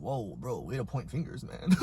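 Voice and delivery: coolly deflect an accusation; understated feigned innocence; mock nonchalance. Playing it cool when accused.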